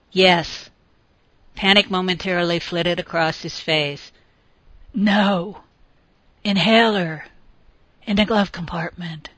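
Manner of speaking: short of breath, gasping out words; struggling to breathe; labored breathing. Acted. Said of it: "his breathing had suddenly become more labored".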